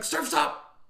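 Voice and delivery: high, punched-out catchphrase; cheesy one-liner. Retold or imitated. Damon Wayans trying a one-liner, high cheesy delivery. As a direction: pitch it way up as a corny punchline. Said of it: "you'd be like".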